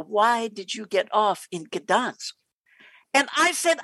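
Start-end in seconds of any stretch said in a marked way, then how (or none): 0.0-2.3 slow, lower, menacing KGB officer; lightly voiced suspicious soldier, drawn out; stern Ivan the Terrible. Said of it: "Ivan the Terrible has come up".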